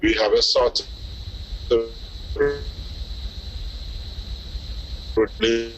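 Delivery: choppy broken-up call audio; glitching audio. Real, not acted. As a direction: voice cutting in and out. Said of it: "It's breaking up".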